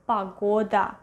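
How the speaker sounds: "pagoda" said pa-GO-da, first vowel an A; "pagoda" with stress on GO, A in the first syllable; unstressed O as A. Shown as a demonstration. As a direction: model "pagoda" with A either side of the stressed O. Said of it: "we read it as A".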